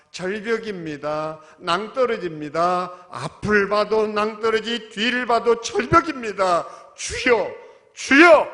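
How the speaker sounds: desperate pleading prayer rising to a shout; desperate prayer cry. Acted. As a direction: cry out to the Lord in despair, rising to a scream. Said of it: "간절함이 있어야 합니다".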